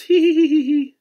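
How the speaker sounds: high, loud giddy giggling; cat giggling as her paw is tickled; hysterical giggles. A narrator's reading. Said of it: "burst into hysterical giggles".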